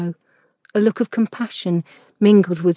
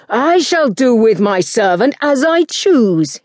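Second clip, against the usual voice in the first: mild yell; 3 semitones higher, 4 dB louder, slower than usual. A narrator's reading. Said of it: "he yelled".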